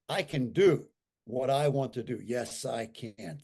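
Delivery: slow, deliberate affirmation read; affirmation recital. Shown as a demonstration. Speaker reciting his stroke recovery affirmation, slow and deliberate. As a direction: recite each line slowly like a creed. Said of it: "eh, you ready?".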